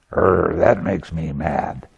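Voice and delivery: a lightly hammed-up annoyed mutter; mock grumble. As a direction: play the sulky mind, growled and dragged. Mocking the mind's complaint.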